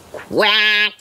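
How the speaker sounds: drawn-out, level-pitched quack; a lightly voiced duck quacking. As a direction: hold one long quack on an even note.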